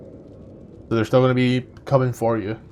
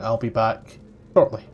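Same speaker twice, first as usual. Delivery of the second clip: put-on Austrian accent; 2 semitones lower than usual. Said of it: "a thick Austrian accent in your head".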